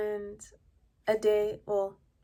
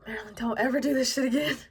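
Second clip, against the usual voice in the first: urgent whisper; 3 semitones higher, 5 dB louder, faster than usual. Retold or imitated. Friend pleads with her after an hour of talk.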